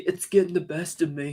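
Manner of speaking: soft Boston accent impression. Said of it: "I can do the".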